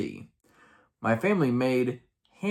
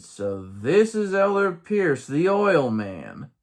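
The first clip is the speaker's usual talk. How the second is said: hammed-up introduction, higher then stretched out; announcer-like introduction; 5 semitones higher, 3 dB louder, slower than usual. Elder introducing him to other missionaries, drawn-out mock introduction. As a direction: present him grandly, drawing out the last words.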